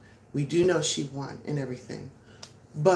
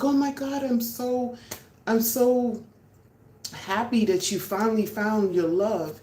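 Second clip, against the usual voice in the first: mock-gushing father, pitched up high; overjoyed dad; 5 semitones higher than usual. Father to daughter's boyfriend: hammed-up gushing joy. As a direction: play the thrilled dad greeting his daughter's Prince Charming. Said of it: "and I'm like".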